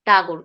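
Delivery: টাগুর with a hard T and a clipped ending; টাগুর as an English speaker says it; Tagore, said the foreign way. Shown as a demonstration. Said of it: "টাগুর বলতো".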